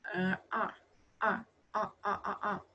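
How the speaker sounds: short repeated "ọ" with tongue curled up; isolated r-coloured "ọ" bursts. Shown as a demonstration. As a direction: curl the tongue back for each "ọ". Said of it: "âm lưỡi đặt cong lên".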